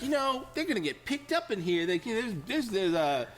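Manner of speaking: high sly warning; knowing conspiratorial tone; insinuating clerk. Retold or imitated. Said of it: "He's like".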